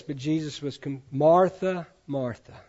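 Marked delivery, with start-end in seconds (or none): 1.1-1.9 gentle calling of a name, slightly raised; tender call. Retold or imitated. Jesus gently calling Martha by name, tender. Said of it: "Can you hear the tenderness in that?". 2.1-2.5 softer, falling, loving rebuke; tender. Retold or imitated. Jesus softly correcting Martha, soft and tender. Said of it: "Can you hear the tenderness in that?".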